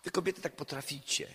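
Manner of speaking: gentle, delicate. Retold or imitated. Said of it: "najdelikatniej jak potrafię".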